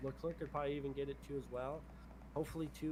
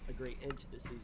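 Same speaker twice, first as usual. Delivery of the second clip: voice crack. Real, not acted. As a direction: voice cracking mid-phrase. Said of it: "Ooh, a little voice crack".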